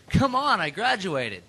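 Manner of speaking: high-pitched "come on" of protest, then dropping; mock pleading. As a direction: lightly plead like a listener begging for a mention. Acting out listener's pleading email.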